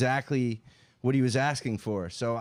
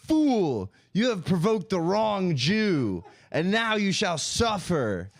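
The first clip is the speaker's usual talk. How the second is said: mock villain proclamation; 4 semitones higher, slower than usual.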